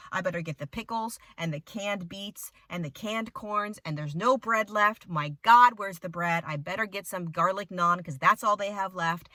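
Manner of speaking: hoarding thoughts spiral into a near-shout; panicked inner monologue. Retold or imitated. Shopper panicking in the grocery aisle, building alarm. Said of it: "I start thinking".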